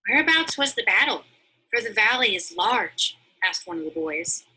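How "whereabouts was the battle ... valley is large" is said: put-on higher, louder curious boy voice; eager boy. One of the boys asks Greatheart where the battle was, eager and high.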